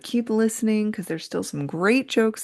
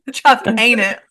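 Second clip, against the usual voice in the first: imitating British accent; 2 semitones higher, 6 dB louder, slower than usual. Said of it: "British people are gonna get up".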